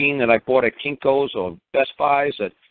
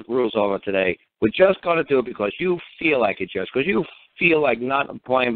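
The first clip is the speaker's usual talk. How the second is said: retold furious rant; 3 semitones higher than usual. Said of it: "he just lost his cookies".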